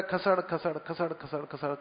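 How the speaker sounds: hushed, fading shuffle noise; shuffling slipper sound. Shown as a demonstration. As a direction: softly mimic slippers scraping the floor. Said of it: "جو چپل گھس کے انسان چلتا ہے".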